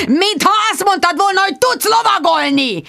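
high-pitched angry reproach; exasperated yell. A narrator's reading. Richard reproaches Bridget about her riding, yelling. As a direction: shout it accusingly, voice pushed up. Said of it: "ordította Richard".

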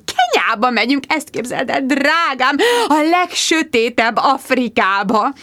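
high, drawn-out gushing mum; gushing mother. Acted. Mother sweeping into the café, gushing and high. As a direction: sing it out like a theatrical mother. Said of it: "mother voice continued".

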